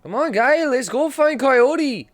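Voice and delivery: high, loud, slow yell; loud excited urging. Real, not acted. Gamer urges his character to go find Coyote, loud and slow. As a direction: drag it out like hyping up a teammate.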